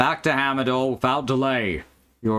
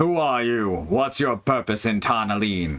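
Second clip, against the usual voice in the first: gruff, demanding soldier voice; 3 semitones lower than usual. A narrator voices a soldier questioning the player, in a gruff voice. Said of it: "He demands in a gruff voice".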